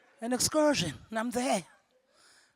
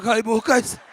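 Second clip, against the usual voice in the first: realization; 7 dB louder than usual. Retold or imitated. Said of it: "I'm like".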